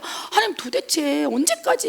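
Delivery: high, lightly voiced "how long" to God; a mild plea cried upward; exasperated plea. Preacher voicing a believer's lament to God, mild high plea.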